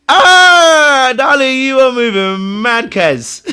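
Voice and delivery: loud laughing admiration; cracking up at her cheek; laughing praise. Real, not acted.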